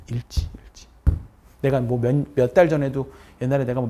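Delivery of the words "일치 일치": whispered 일치, 일치; teacher whispers the key word. Real, not acted. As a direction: breathe the motto softly. Whispered motto.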